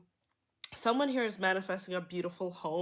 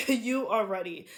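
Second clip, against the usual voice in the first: louder, with a laugh, cheering them on; laughing emphasis; 4 dB louder than usual. Real, not acted. Reader encouraging viewers, laughing and louder. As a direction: say it again through a happy laugh.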